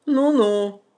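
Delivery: put-on high, scoffing old man; mocking old man. A narrator's reading. Old man scoffs at the bride, mocking. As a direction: scoff at her.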